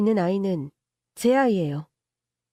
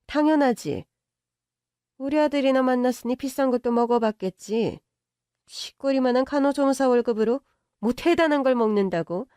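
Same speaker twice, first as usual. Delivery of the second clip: lightly raised voice, looking down on her; haughty rich mother; 3 semitones higher than usual. Acted. Rich mother mocking her son's girlfriend, haughty. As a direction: sneer at her tiny salary.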